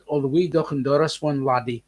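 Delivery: brief put-on Scottish burr; Scottish accent. Shown as a demonstration. Asking Graham which accent he means, Scottish accent. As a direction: slip into Scottish for the phrase. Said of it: "are you talking about this accent".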